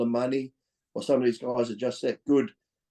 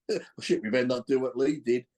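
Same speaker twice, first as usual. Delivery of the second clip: mock panic. Mocking scared athletes.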